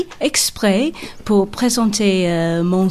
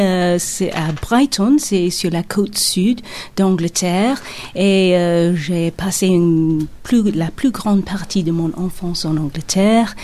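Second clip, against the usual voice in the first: English accent. Real, not acted. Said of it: "vous avez un accent anglais".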